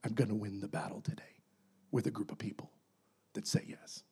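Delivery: soft, low, whispered determination; quiet resolve. Acted. God quietly vowing to win with the willing. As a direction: say it quietly but sure.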